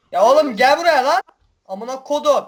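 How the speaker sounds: fired-up yelling at pursuers; being chased. Real, not acted. Three tanks chasing him.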